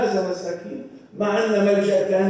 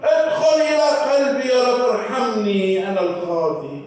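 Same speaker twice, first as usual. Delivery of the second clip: sinner's prayer. Acted. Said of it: "قل له".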